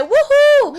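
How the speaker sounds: high, loud cheering whoop; big celebratory woohoo. Real, not acted. Cheering Coming Out Day.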